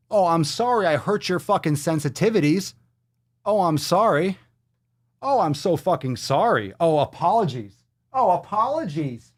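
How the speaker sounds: high, mocking sorry, dripping with sarcasm; overdone sarcastic apology, pitch climbing. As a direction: apologize like you mean the opposite. Sarcastic mock apology to partner.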